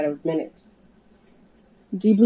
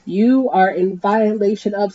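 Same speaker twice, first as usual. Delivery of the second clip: blared; 3 semitones higher, 4 dB louder, slower than usual. Acted. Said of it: "the helicopter blared".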